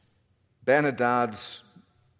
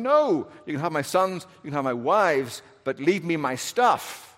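protesting Ahab; 3 semitones higher than usual. Acted. Acting out Ahab's protest.

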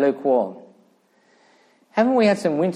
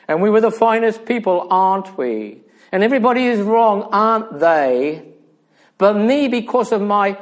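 louder, higher, mock self-satisfied boasting; mock smug; 5 semitones higher, 4 dB louder than usual. Preacher voicing a church sure it is the finest, mock smug. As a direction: voice the smug congregation, pitched up and pushed. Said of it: "we're all smug".

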